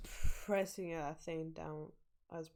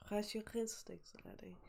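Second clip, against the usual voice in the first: whispered imitation of a Scottish accent; mock Scottish; 3 semitones higher than usual. Player whispering the character's line back, mock Scottish accent. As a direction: echo the old Scot in a whisper, "Trust your instincts, laddie". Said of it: "I like how he has, like, an Irish, no, a Scottish accent".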